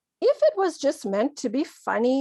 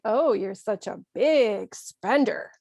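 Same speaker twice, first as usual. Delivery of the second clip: bug a friend with mild mock admiration; joking sarcasm. Shown as a demonstration. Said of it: "You're just bugging them, joking with them".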